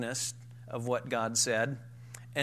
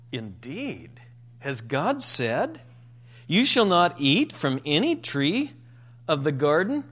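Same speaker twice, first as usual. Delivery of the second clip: a sceptical, questioning serpent voice with rising ends; incredulous tone; 6 dB louder than usual. Retold or imitated. Preacher voicing the serpent to Eve, incredulous. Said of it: "in an incredulous tone".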